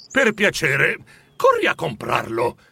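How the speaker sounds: mildly gentle, polite asking; kindly request. Acted. Scrooge sending the boy to buy it, kindly. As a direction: ask nicely, without ordering. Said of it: "chiese gentilmente Scrooge".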